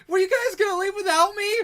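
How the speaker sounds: very high, very loud wailing shout; panicked character yell. Acted. Game master's Karik yells at friends leaving without him, high screaming. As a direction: scream after the departing group, ending in a shriek. Karik yelling as party leaves.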